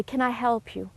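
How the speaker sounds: soft stranger offering help. Retold or imitated. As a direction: ask kindly under her breath. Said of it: "a soft voice say".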